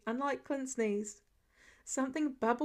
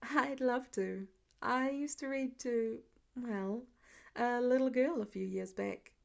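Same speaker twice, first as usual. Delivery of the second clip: warm. Acted. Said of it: "Pete's voice was warm".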